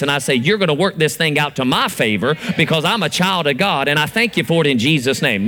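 confident declaring prayer; bold prayer. Shown as a demonstration. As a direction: come boldly before the throne. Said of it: "I'm gonna do a couple prayers".

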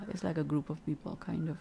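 thin, metallic tinny voice. Real, not acted. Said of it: "my voice is a little tinny now".

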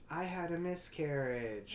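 a touch of put-on sadness, drawn out; mildly mock sad. Wife confides in husband after the club, lightly acted sadness. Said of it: "all sad".

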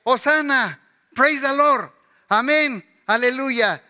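playful hosanna and amen; mock crowd praise. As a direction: imitate the cheering churchgoers. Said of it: "Esta misma gente que decía".

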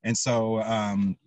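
mellow, slightly foggy stoned talk. Real, not acted. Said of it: "sorry, I'm a little stoned".

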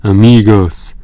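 greeting them loudly; mild call out. A narrator's reading. The Patagonian greets his friends with a loud warm call. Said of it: "zawołał Patagończyk".

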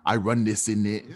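put-on British street-slang accent. Friend playing a Brit for laughs, slangy British accent. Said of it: "British things. Let's see".

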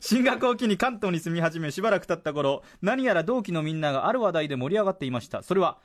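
presenter reading a listener's story aloud; radio letter reading. Acted. Radio host reads a listener's confession about TBS, letter-reading delivery. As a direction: read it out clearly, phrase by phrase.

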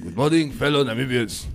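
solemn news anchor voice, barely holding it; mock formal announcer. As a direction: put on the formal address, nearly laughing. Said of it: "I can't do it with a straight face".

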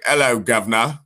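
lightly put-on British accent. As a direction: greet the crowd in a playful British accent. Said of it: "with a British accent".

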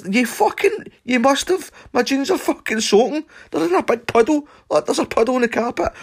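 high, loud ranting accusation; furious accusation. Retold or imitated. Shouting at Stumpy about the puddle on the carpet, high and loud. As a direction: rant at him, insisting. Accusing friend in retold quarrel.

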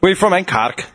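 mock Cork accent, dropping on the answer; Irish accent. Friend acting out asking a Cork local, mock Irish accent. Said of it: "you know, they call it Cork".

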